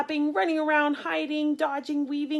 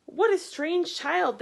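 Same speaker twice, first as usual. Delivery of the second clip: slow, louder, higher sniffy remark; disapproving villagers; 6 semitones higher, 5 dB louder than usual. Acted. Villagers judging Boy, slow sniffy remark. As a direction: villagers frowning at the boy as he walks by. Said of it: "they would say".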